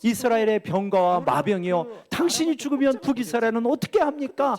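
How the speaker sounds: retold lament. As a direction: lament aloud as a preacher retelling it, no real tears. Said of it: "이렇게 탄식하는 거예요". (탄식하듯 높여 호소하는 말투)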